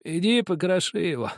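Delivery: lightly voiced old soldier, slow and heavy; a hint of a worn-out old man; dying soldier. A narrator's reading. A dying man tells the narrator about the boy, lightly voiced.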